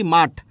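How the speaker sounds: মাঠ ending in a hard t, not th; aspiration dropped. Shown as a demonstration. Teacher showing lost aspiration, মাঠ ending in plain t. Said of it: "মাঠরে কি বলছি?".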